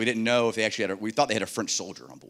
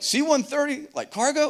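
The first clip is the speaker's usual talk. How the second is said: very high mock-French question; baffled Frenchman, hammed up; squeaky-high, terrible French accent; bad French accent. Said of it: "my accent is just absolutely terrible".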